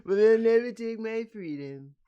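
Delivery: high, loud mock Scottish battle speech; rally the troops, hammed up; Braveheart speech.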